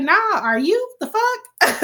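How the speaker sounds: high mock disbelief, rising; incredulous retort. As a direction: throw it back at him, outraged. Connor's retort, retold.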